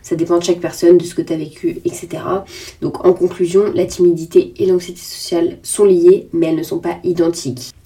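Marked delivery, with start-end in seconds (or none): 2.8-7.7 talking through a blocked nose; stuffy nose, clogged sound. Real, not acted. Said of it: "J'ai le nez bouché, je sens que ça s'entend". (nez bouché)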